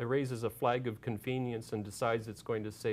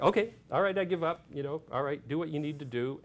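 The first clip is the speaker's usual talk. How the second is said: mock give-up, starting raised then easing; resigned surrender; 4 semitones higher, 3 dB louder than usual. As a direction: imitate a creature meekly surrendering. Whale voiced as giving up.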